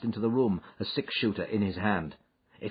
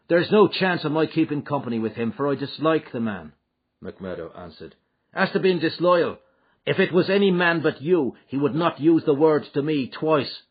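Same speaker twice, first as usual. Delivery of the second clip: McMurdo, proud and higher, louder; bristling at the charge; voiced McMurdo; 7 semitones higher, 7 dB louder than usual. McMurdo protests loyalty.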